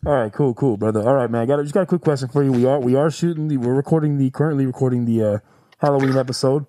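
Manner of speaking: muffled behind a ghost face mask; talking through a mask. Real, not acted. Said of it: "my voice sounds a little funny".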